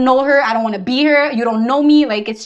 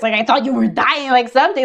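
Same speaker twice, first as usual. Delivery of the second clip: mock amazed friend; 4 semitones higher, 4 dB louder than usual. Mocking people who exaggerate.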